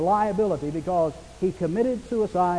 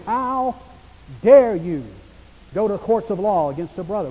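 a sudden loud burst on dare you; preacher hurling Paul's rebuke at the church; indignant rebuke; 5 dB louder than usual. Acted. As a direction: thunder it like an outraged apostle. Preacher voices Paul's outrage.

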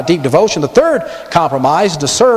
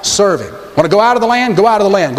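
higher, mock generous grant; Pharaoh conceding; 4 semitones higher than usual. Preacher acting Pharaoh giving way to Moses, higher. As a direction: wave Moses off like a magnanimous king. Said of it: "He's saying".

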